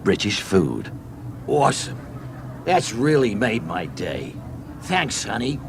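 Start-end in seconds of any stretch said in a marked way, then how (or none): 1.5-5.6 Chuck pleased. Acted. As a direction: savour it with a smile in the voice. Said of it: "he smiles".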